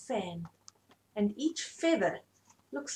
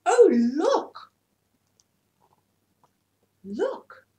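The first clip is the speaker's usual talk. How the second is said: loud high shout of delight; excited cry; 8 semitones higher, 7 dB louder, much slower than usual. A narrator's reading. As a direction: call out thrilled at the parade. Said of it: "cried four water buffalo".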